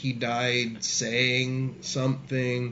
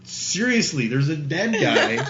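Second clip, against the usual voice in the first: insistent, laughing; 4 semitones higher, 5 dB louder than usual. Retold or imitated. Insisting to disbelieving stranger.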